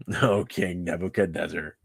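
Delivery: low, understated refusal; meme-style aside. Acted. Three men casually refusing the king over a drink, low and understated. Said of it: "I just kinda picture the meme".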